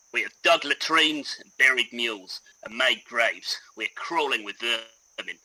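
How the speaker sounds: put-on lightly done Australian accent reading a soldier's letter; a hint of Australian, weary and fed up. Podcast host reads a soldier's letter to co-host, light Australian accent. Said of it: "Should I try an Australian accent for this?".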